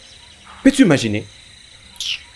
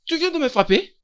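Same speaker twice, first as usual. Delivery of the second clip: high-pitched, softer incredulous question; stunned disbelief; 9 semitones higher, 5 dB quieter than usual. Acted. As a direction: ask it aghast, voice rising. Teacher stunned at being struck back. (stupeur incrédule, voix aiguë et retenue)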